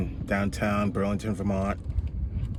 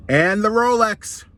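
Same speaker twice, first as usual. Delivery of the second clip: slow, loud, higher robber voice; menacing demand; 11 semitones higher, 8 dB louder, slower than usual. Acted. Squirrel demands the rabbit's Rolex, slow and menacing. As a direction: lean on it like a stick-up man.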